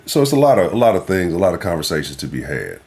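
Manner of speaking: ordinary talk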